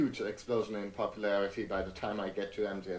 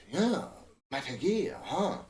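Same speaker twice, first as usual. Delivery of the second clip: Snake voice; 8 semitones higher than usual. Shown as a demonstration. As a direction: growl it like a hard-boiled soldier. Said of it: "He kind of sounds like this".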